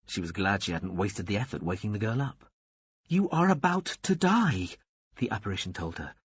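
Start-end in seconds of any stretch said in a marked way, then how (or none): 3.1-4.7 a hint of a solemn angel, pitched up; lightly voiced angel. A narrator's reading. Angel of death addressing the old nun, mild solemnity. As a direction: keep the angel calm and lofty.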